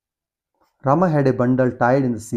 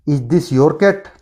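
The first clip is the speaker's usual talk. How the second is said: very slow, louder "is this your cat" rising at the end; 4 dB louder, much slower than usual. Shown as a demonstration. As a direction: ask it so the voice climbs on cat. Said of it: "increasing tone है". (बहुत धीमी उठती tone)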